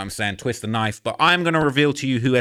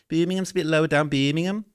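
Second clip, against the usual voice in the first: higher-pitched Birmingham accent attempt; mock Brummie accent; 4 semitones higher than usual. Shown as a demonstration. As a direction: demonstrate an amateur Brummie accent. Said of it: "My, my U K accents ain't all that".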